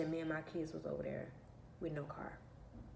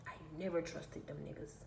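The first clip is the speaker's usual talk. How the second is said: whispered aside; 5 dB quieter than usual. Real, not acted. Unvoiced aside.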